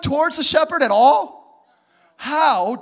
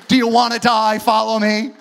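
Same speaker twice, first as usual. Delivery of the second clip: mock scolding; 3 semitones lower, 3 dB louder than usual. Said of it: "not saying".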